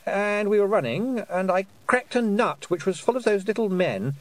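put-on high dazed boy; a confused boy remembering; young boy voice. Roland voice.

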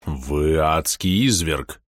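slow, low outraged denunciation; stern colonel. Acted. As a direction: spit out the accusation slowly. Colonel denounces the villain. (полковник медленно и низко обличает)

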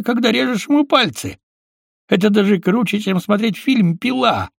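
high, gloating villain voice; gleeful sadist. Acted. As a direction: relish every word. Mosfet gloating.

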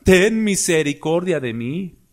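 slow, drawn-out plea; imitated clamor for mercy. Preacher models the blind man's cry to the congregation, slow imitated plea. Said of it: "Este es el clamor".

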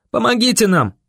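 high urgent call for help; crying out. A narrator's reading. Boy running to the barricade for help, crying out. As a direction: call out desperately while running. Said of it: "закричал я".

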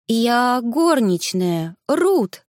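timid maid, slow and halting; shy and hesitant, drawn out. Acted. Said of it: "раздался робкий голос".

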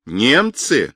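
НЕМЦЫ with a big rise and fall; wailing cry. A narrator's reading. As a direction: draw out НЕМЦЫ as a landlady's indignant cry. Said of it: "перекрывающий его вопленный крик хозяйки".

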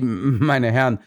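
"meine Herren" said slow and halting; stammering. Acted. The guard apologizes to the detectives, halting "meine Herren". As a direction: falter over "meine Herren". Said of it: "stammelte er".

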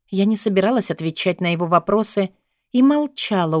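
plain reading voice

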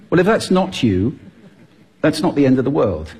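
normal talking voice

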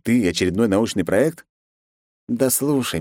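ordinary delivery, nothing marked

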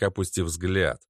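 plain reading voice

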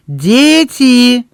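high, loud sudden cry; sudden glad exclamation; exclaiming. A narrator's reading. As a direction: cry out as the idea strikes. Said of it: "вскричала Эбби".

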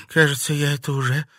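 constrained, pained reply; quick start, then a choked halt; strained voice. A narrator's reading. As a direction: squeeze the words out through pain. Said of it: "сдавленным голосом произнесла Катерина".

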